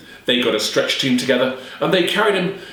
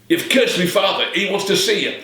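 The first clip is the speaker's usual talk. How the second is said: accusing son; 7 semitones higher than usual. Acted.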